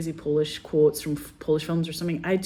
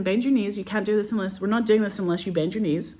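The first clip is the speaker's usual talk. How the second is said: retold bossy order; 4 semitones higher than usual. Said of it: "I was, like, so bossy".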